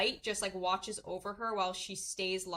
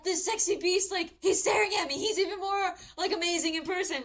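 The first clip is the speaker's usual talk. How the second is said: high, louder mock swooning; lewd gushing; 7 semitones higher, 5 dB louder than usual. Lewd woman thinking about the prince, mock gushing. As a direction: gush hungrily, hammed up. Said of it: "she's a really lewd character".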